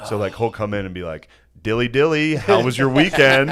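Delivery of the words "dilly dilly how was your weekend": cheery office-bore greeting, pushed louder; mock energy vampire. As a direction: imitate a draining office dork's small talk. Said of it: "He's an energy vampire".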